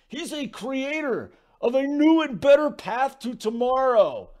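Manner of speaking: mock Walton crescendo; Bill Walton impression. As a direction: swell into a grand finale. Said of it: "my Bill Walton impersonation".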